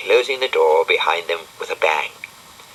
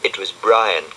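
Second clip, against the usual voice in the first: plain reading voice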